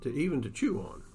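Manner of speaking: steady storyteller reading a Western aloud; story narration. Acted. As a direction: read it like an author sharing his book on the radio. Author reads his novel aloud.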